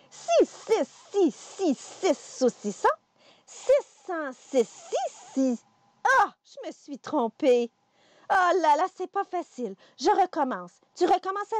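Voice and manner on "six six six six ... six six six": slow retry. Shown as a demonstration. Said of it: "on recommence".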